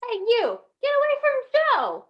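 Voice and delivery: put-on high, loud kid's yell; angry yell. Freddy yelling at the man taking his logic, angry. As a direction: shout him off like a bratty kid.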